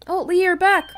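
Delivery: high bright welcome; excited greeting. Acted. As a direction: greet them with delight.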